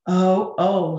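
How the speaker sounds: worried sighing oh; sighed. Acted. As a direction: sigh it out, mildly distressed. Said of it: "sighed Zeke".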